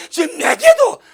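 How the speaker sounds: very high, slow, loud cry; shouted plea. Retold or imitated. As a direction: cry out to heaven, stretched long. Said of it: "왜 나를 안 만나줍니까".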